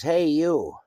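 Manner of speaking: loud, high call out the window; kid's retold yell. Eight-year-old neighbour yelling at narrator from the window, retold shout. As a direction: bark it like a bratty kid hollering. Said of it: "he yells out at me".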